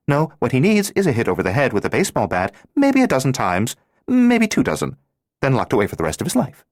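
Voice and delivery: high, loud, blunt schoolgirl lecturing her friend; a bold, teasing, know-it-all girl laying it on thick; brash Thelma. Acted. Thelma's character voice.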